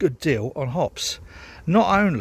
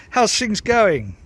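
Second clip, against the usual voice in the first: bright greeting; 8 semitones higher, 6 dB louder, much slower than usual. Real, not acted. Repeats greeting more loudly.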